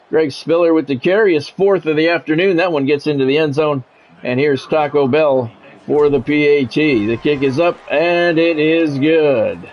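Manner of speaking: measured broadcast call of the down and the drive; sports play-by-play. Acted. Streamer calling his video game to chat, play-by-play announcer voice.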